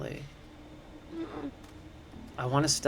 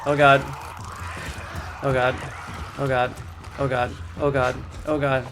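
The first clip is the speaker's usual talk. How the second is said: scared repeating. Real, not acted. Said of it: "Scared to death".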